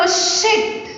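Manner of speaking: demonstrated outburst of anger; mock angry curse; angry exclamation. Shown as a demonstration.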